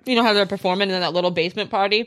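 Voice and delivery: talking with mouth full; words round a bite of food. Real, not acted. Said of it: "I'm talking with my mouth full".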